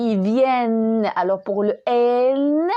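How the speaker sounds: VIENNENT and N drawn out on an open è; slow viennent and N with long open vowel and humming final n. Shown as a demonstration. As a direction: stretch VIENNENT as "vyènn", holding the n. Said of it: "pour montrer qu'il y a un E".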